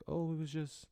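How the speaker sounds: put-on high childish voice, squeaky and innocent; little kid voice. Kid brushing off the teacher's question in a high childish voice. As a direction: play your small self brushing it off. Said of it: "me being little".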